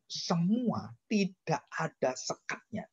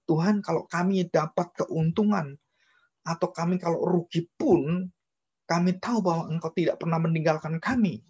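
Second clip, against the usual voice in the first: quoted prayer; 3 semitones higher than usual. Retold or imitated.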